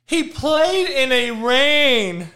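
mocking excuse. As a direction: parrot the lame excuse, drawn out. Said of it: "That is a fucking excuse".

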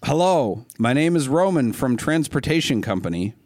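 imitating a Russian trucker, half-hearted; mock Russian trucker. Host mocking a Russian trucker's message, light Russian accent. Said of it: "I'm not gonna try to do a Russian accent".

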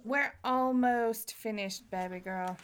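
slow, softening reassurance. Real, not acted. Reassures child asking how long.

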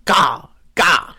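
high bleating dinosaur call; plant eating dinosaur. Pretend. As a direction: squawk it like a baby dinosaur. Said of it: "That sounded like a sheep".

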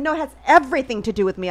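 quick, mildly indignant retort; retold going off. Retelling the argument with officer over mother, indignant. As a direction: argue back briskly, imitating your own rant. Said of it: "going on about it".

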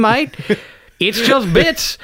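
broad Aussie sign-off; put-on Aussie; Australian accent. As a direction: attempt a chummy Australian accent. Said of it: "It's Just Bits in an Australian accent".

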